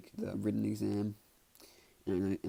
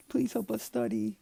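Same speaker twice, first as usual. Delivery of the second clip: high, slow mock begging; drawn-out high-pitched plea; pleading; 14 semitones higher, 5 dB louder than usual. Two students begging Momo for help, high drawn-out pleading.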